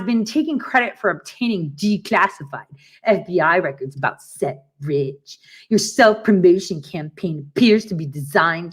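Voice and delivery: lightly put-on smug lawyer reading; disgusting lawyer voice. Mocking the lawyer's cease-and-desist email, lightly voiced smug tone. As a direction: sneer the letter out like a pompous lawyer. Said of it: "I had to make that voice 'cause it sounds so disgusting".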